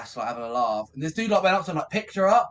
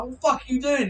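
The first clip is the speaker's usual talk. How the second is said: high, louder retold outburst; mock yell at drummer; 11 semitones higher, 6 dB louder, faster than usual. Guitarist retells yelling at his crying drummer. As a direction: call out the drummer, half shouting.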